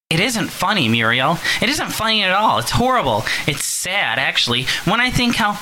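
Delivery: high, fretful mother on the phone; worried mother. Acted. Mother phoning her daughter, high and anxious. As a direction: fuss anxiously over your daughter.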